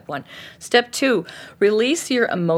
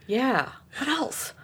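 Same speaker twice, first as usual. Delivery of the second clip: coaxing coach; 4 dB quieter than usual. Shown as a demonstration. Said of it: "this is my job as a coach".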